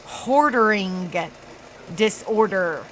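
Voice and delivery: "hoarding" drawn out slowly, set apart from "disorder"; careful enunciation. Real, not acted. Streamer making clear which word she means, careful enunciation. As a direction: stretch "hoarding" so it can't be misheard. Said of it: "I'm not saying that. I'm saying".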